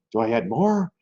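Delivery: hammed-up panicked dithering; mock panic. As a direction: play a frozen trader losing his nerve. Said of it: "like a deer in headlights going".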